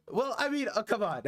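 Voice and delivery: high, laughing protest; amused protest. Real, not acted. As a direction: protest through a laugh, pitch jumping up. Laughing off a chat message.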